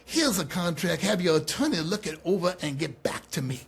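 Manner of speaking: brisk boss impression with a put-on accent; Dusty Rhodes. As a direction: imitate a busy boss dismissing a rookie. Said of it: "He goes".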